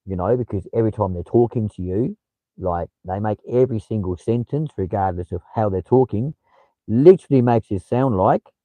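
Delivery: rising question tune on "you", "talking" and "like"; mimicked Aussie uptalk. Shown as a demonstration. Streamer showing viewers how Australians talk, questioning upward lilt. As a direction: lift the end of each phrase like a question. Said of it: "you go up at the end of the sentence".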